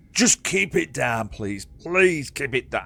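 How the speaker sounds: mildly nervous, backing-down plea; scared guard pleading. Acted. Petrified guard facing the prisoner, meek pleading. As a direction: climb down from the shout to a polite plea. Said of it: "He's petrified of you now".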